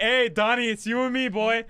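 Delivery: bro greeting. Retold or imitated. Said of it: "the guy's like".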